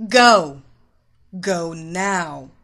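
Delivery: loud, curt order; stern, forceful dismissal; frowning command. A narrator's reading. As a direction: order the stranger away. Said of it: "she said with a frown".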